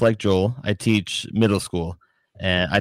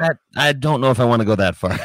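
laughing; 3 semitones higher, faster than usual. Real, not acted. Laughing reply.

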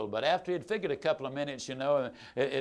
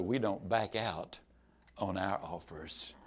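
mildly dangerous; 10 semitones lower, 8 dB quieter than usual. Retold or imitated. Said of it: "Mildly dangerous".

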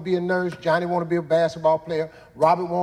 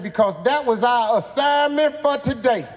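put-on higher, louder, guileless child; innocent kid voice; 7 semitones higher, 4 dB louder than usual. Boy innocently explaining his assignment to the teacher. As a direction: answer like an innocent ten-year-old.

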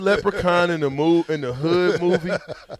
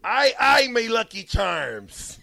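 slow, higher mock Irish with pirate in it; pirate-ish Irish; 6 semitones higher, much slower than usual. Host retrying impression, slow pirate-ish Irish. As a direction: drag out a botched Irish accent. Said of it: "That's a little pirate-ish".

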